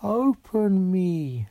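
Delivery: high, slow, drawn-out whisper of a door; slow eerie door voice. A narrator's reading. Door luring the girl, slow and eerie. Doors speaking in her head.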